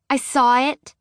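put-on high, small child's voice admitting it; a scared little girl owning up. A narrator's reading. Marnie answering her daddy, high and small.

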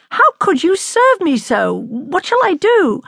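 high-pitched, distressed reproach; dismayed cry. A narrator's reading. Young man let down over his star, dismayed. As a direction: plead in dismay, pitch well up. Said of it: "he cried in dismay".

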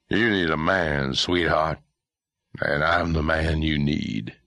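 put-on slow, leering drunk man; a menacing drunk closing in, slowly.

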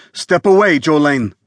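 urgent command. Acted. Homeowner warning the maid away from the door, urgent. Armed man orders maid back.

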